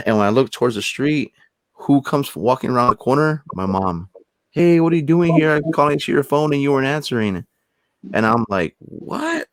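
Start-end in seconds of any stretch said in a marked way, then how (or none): 4.5-7.5 higher, surprised call across the street; surprised mom calling. Retold or imitated. 8.8-9.5 high, soft, baffled what; a squeaky, disbelieving what; stunned what. Retold or imitated. Stunned reaction to mom outside.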